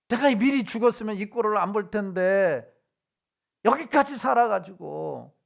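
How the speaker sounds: retold bitter lament over having lived this long; resentful complaint. Preacher voicing the Israelites grumbling at their leaders, resentful. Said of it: "그러면서 원망하며 막".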